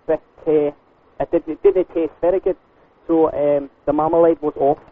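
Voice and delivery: put-on Scottish customer with a complaint; Scottish lilt drifting into Australian; Scottish accent. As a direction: do a muddled Scottish accent on a prank call. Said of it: "talking Australian with the Scottish".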